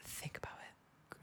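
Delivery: soft unvoiced hint; whisper. Real, not acted.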